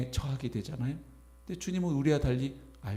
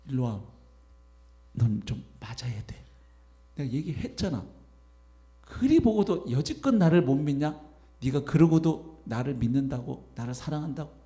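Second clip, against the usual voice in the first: mock scolding. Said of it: "책망했을 것 같아요".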